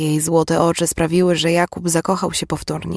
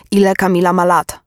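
louder, insistent question; urgent demand; 3 semitones higher, 5 dB louder than usual. Acted. Man struck by terrible suspicion asks her age, urgent. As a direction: press hard for the answer. Dawning horror, repeats question forcefully.

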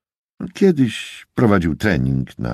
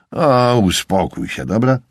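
grunted retort; 8 semitones higher, 3 dB louder than usual. A narrator's reading. Tyrell brushing off his reproachful buddy, grumbling. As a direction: grumble it back, stretched and higher. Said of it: "burknął Tyrell".

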